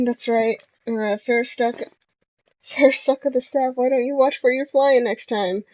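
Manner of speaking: put-on a light Australian accent, fired up; Junkrat Aussie accent. Junkrat defends Roadhog, lightly voiced Australian accent. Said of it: "Junkrat gets up with renewed energy".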